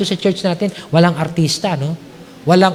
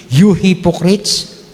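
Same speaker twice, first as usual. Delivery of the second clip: Jesus rebuking; slower than usual. Acted. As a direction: point and condemn slowly. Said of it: "sabi ni Jesus sa kanila". (mabagal at malakas na paratang ni Hesus)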